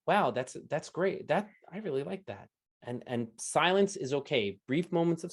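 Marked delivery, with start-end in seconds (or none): 0.1-2.5 appreciative interviewee. Acted. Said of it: "And you can even say".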